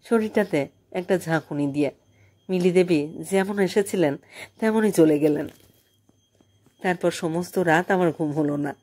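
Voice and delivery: usual speaking voice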